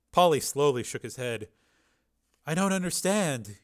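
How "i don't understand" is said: higher, slow, soft disbelief; softly bewildered. Acted. Beaten man shaking his head, softly bewildered. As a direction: say it softly, at a loss. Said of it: "he said softly".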